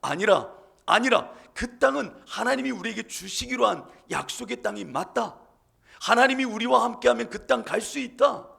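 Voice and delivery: high, heated rebuke; Caleb bursting out. Acted. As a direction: let your anger burst out. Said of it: "갈렙은 분이 터지는 겁니다".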